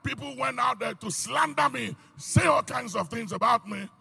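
loud, ringing sermon delivery; fiery pulpit preaching. Real, not acted. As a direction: preach it out to the congregation. Preaching at full force.

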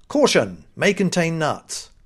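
loud, deliberate warning read-out; label read-out. Retold or imitated. Reading the allergy warning on a nut packet, label read-out. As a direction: announce the warning firmly and slowly. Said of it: "It said on the back".

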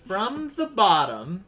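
slow, quacky cartoon duck voice; drawn-out duck-like cartoon voice; Donald Duck voice. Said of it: "That was a pretty good Donald Duck".

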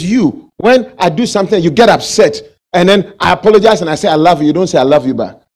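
loud, fast nagging wife quote; complaining wife. Retold or imitated. Wife's complaint to husband, acted.

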